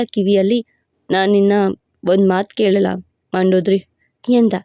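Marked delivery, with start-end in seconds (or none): 1.1-3.8 lower, commanding male lead; a proud, possessive lover laying claim; possessive hero voice. Acted. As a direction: hero boasting to his beloved in a lower voice. Hero asks her.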